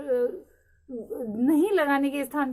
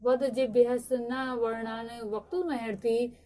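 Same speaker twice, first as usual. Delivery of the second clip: Sanskrit recitation; slower than usual. Shown as a demonstration. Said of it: "Panini महोदय ने लिखा है".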